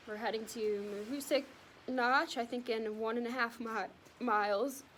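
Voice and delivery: talking through hiccups; words held against the hiccups; suppressing hiccups. Real, not acted. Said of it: "I have hiccups".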